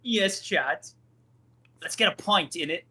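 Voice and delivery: mock British accent, clearly playful; put-on British accent. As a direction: ham up a British chap for chat. British bit for chat.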